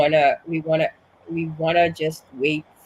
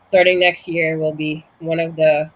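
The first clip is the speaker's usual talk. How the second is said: breathless from being sick; short of breath, pushing through; 6 dB louder than usual. Real, not acted. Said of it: "I'm a little bit out of breath".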